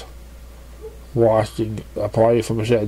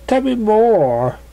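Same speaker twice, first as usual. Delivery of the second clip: tell me more; 10 semitones higher, 3 dB louder, much slower than usual. A narrator's reading. Claire eager for more.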